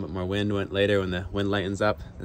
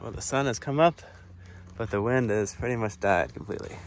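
ordinary talk, nothing marked

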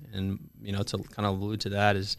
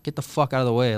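higher, louder mock shout; retold heated yell; 4 semitones higher, 5 dB louder than usual. Arguing back at the Marine to help a girl, retold shout. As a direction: push back at someone yelling at you, voice raised.

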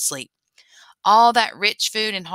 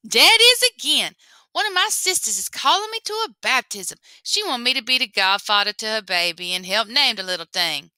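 sly rabbit Lapin; 3 semitones higher, 3 dB louder than usual. Acted. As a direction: fake being summoned, pleased. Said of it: "Lapin pretends hearing a call".

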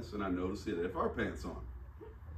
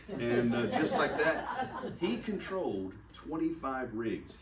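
talking through real laughter, slower; laughing; 4 semitones higher, 3 dB louder, slower than usual. Real, not acted. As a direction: chuckle out the words. Laughing while telling punchline.

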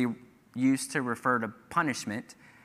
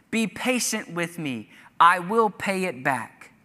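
a fellow servant on his knees pleading; begging; 3 semitones higher than usual. Acted. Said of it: "begged him in the same words".

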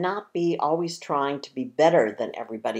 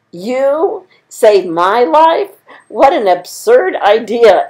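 slow, higher mocking lion; amused scornful lion; 8 semitones higher, 12 dB louder than usual. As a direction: scoff at the tiny mouse. Lion mocks the mouse.

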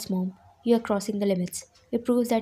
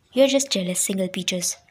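teasing retort; 6 dB louder than usual. Acted. Bride defending her fiancé against teasing, loud retort. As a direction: snap back playfully at her sister.

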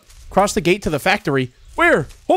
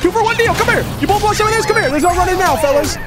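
gloating taunt; 12 semitones higher, faster than usual. Acted. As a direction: gloat over cornered prey. Cornering two victims.

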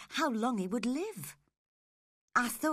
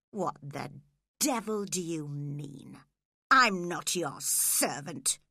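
growled; 4 semitones lower than usual. Acted. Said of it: "he growled".

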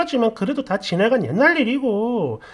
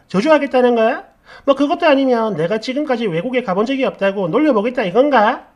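louder, heated tirade that keeps coming back at the friend; acted furious rant; 4 dB louder than usual. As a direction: play the angry bride venting loudly at her friend. Friend rants after crazed laughing. (분노한 목소리로 몰아붙이며 따지기)

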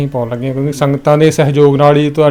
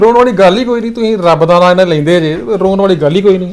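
earnest reassurance; 3 semitones higher, 4 dB louder than usual. Real, not acted. Vlogger reassuring the weeping family, raised insistence. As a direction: lift them up with firm encouragement.

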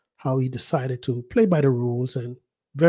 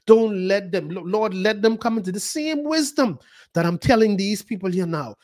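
spoken prayer; 3 semitones higher than usual. Shown as a demonstration. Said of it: "I say".

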